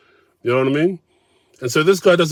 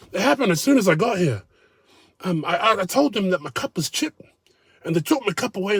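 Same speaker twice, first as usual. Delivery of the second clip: higher, self-pitying whine; higher mocking whine of a sulky diner; whiny mock complainer; 6 semitones higher than usual. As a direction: sound like a sulky grown man. Quoting him again.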